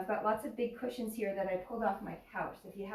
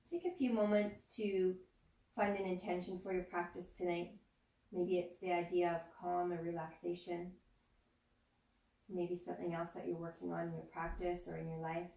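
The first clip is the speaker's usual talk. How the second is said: guided meditation. Acted. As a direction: ease them into stillness, unhurried. Leads a yoga nidra meditation.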